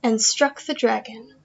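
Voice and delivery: lively storytelling voice for a class; story narration. Acted. Teacher reading The Magic Flute story to her class, lively narration. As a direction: paint the fairy tale for the children.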